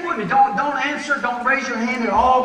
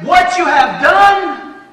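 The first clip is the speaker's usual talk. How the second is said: very slow, higher and louder, menacing; the devil's verdict; 6 semitones higher, 7 dB louder, much slower than usual. Acted. The devil reminding a sinner of the past, slow and menacing. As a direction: drag each word out like a sentence passed. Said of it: "You know what he says?".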